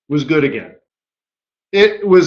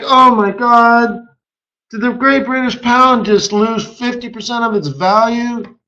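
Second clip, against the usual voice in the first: mock shock; 3 semitones higher than usual. Acts out banker's shock at crash.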